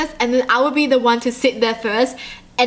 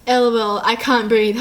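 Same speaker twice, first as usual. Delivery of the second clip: fake deadpan laugh. Fake texting laugh, straight face.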